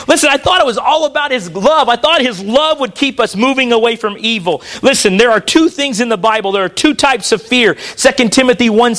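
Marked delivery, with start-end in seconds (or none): 0.1-4.6 mock objection. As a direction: put on a churchgoer's puzzled complaint. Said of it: "This morning you're saying".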